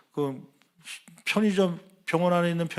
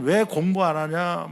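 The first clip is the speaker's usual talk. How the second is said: scolding; 3 semitones higher, 4 dB louder, slower than usual. Retold or imitated. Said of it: "막 혼내고".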